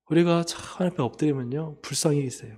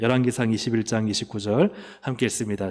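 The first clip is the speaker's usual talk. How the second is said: normal talking voice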